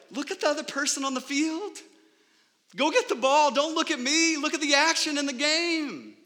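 high, loud calls from the sideline; sideline dad shout. Retold or imitated. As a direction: yell at the kid to watch the game. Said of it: "I keep looking at him like".

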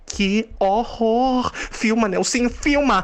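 high thrilled cry; gleeful high squeal; excited shriek. Acted. Excited demand to film.

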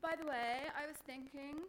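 put-on ditzy posh girl, blurting it out; mimicking the roommate. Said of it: "she said to me".

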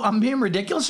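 mock outraged repeat; indignant echo. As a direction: throw her word back at her. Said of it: "and I go".

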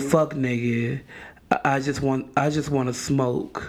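measured, solemn poet's recital; Maya Angelou. Acted. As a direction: recite it low and unhurried, with weighty pauses. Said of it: "in my best Maya Angelou voice".

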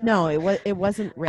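firmly correcting him, mildly fed up; half-acted exasperated no; retold annoyance. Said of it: "I like how increasingly annoyed she".

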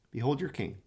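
soft echo. Acted. Preacher echoing Pilate's words to himself, softly. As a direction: let Behold your king fall away quietly.

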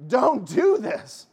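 a gentle mother's plea; voicing Mary's plea. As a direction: plead as Our Lady warning her children. What do you think she was trying to say?.

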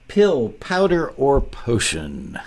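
slow, booming announcer read; big radio voice. Shown as a demonstration. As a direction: announce the title like a radio host. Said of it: "It's my big radio voice".

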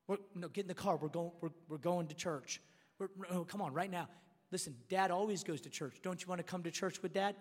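low, soft fatherly persuasion; acted patient, hushed dad; gentle coaxing dad. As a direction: coax the kids quietly into coming along. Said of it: "this is a little different conversations".

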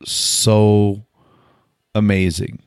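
slow, with a pause before each weighty word; retold awe. Retells first awed reaction to church.

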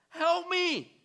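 high, loud, slow plea for help; crying out. Acted. Preacher voicing the frightened disciples crying out. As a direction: cry for help from the boat.

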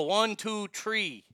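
"three" said as "tree"; Irish count, "three" with a plain T. Shown as a demonstration. Host demonstrating Irish TH, "three" pronounced "tree". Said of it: "T H as tuh".

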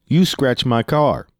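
slow, incredulous retold retort; getting loud. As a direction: throw the accusation back in mock outrage. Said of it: "I started getting a little loud".

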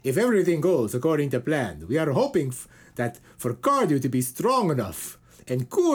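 a hint of a solemn papal frontman, in a Swedish manner; Cornucopia voice. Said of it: "I'm gonna do him in the Cornucopia voice".

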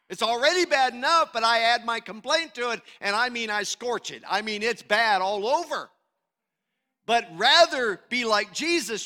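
loud, exhorting preacher; emphatic sermon delivery, punching key words; forceful preaching. Real, not acted. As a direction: press the warning on the congregation.

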